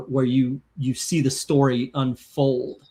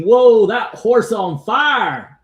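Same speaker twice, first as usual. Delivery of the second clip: put-on slow, higher, louder country Asian accent for a viewer's comment; 6 semitones higher, 7 dB louder, slower than usual. Host reads a viewer's comment in a mock country Asian accent. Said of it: "I'm doing that accent".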